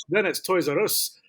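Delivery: slow, mock-Scottish "Toys R Us"; Scottish accent. Joking unless they're Scottish, mock Scottish accent. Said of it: "Unless they're Scottish".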